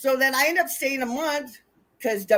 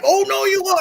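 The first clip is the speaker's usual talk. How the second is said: high, loud mock protest; imitated loud objection; 9 semitones higher, 8 dB louder than usual. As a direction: shoot down the drunk's threat. Acted quarrel on the bus.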